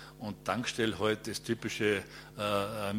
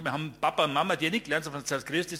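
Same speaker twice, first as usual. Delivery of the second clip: sharp retort; 4 semitones higher, faster than usual. Retold or imitated. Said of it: "genauso scharf angegangen".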